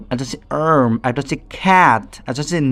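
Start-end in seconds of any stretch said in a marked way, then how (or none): 0.7-0.9 "আর্ম" with a long, stressed opening vowel; pronunciation demo. Shown as a demonstration. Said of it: "কতভাবে উচ্চারিত হচ্ছে". 1.6-2.1 "ক্যাট" slow and emphatic, with a stretched অ্যা vowel; pronunciation demo. Shown as a demonstration. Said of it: "কতভাবে উচ্চারিত হচ্ছে".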